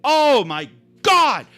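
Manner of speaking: heated, high, rising exasperation; getting angry. Real, not acted. Speaker relives threatening to turn the car around, real anger. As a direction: get worked up reliving it, pitch climbing. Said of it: "I'm getting angry just reliving this".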